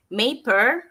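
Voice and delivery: ordinary talk, nothing marked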